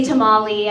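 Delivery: tamale said with plain American vowels; anglicized pronunciation. Shown as a demonstration. Comic showing their accentless speech, anglicized tamale. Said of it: "even the way I speak".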